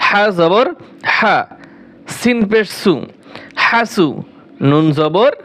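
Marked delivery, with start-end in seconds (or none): 0.1-1.4 হা squeezed from inside the throat with a hiss; throaty raspy ha. Shown as a demonstration. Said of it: "গলার ভিতরে ফ্যাস ফ্যাস আওয়াজে বলতে হবে". (হা চেপে, গলার ভিতর থেকে ফ্যাসফেসে উচ্চারণে)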